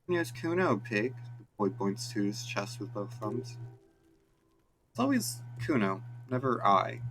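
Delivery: snotty street brat; cocky street kid. Acted. Kuno boasting.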